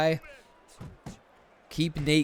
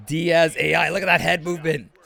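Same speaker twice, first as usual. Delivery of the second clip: sudden louder burst of commentary; excited reaction; 3 semitones higher, 5 dB louder than usual. Real, not acted. Commentator reacting to live head movement, excited. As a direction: call out the move as it happens.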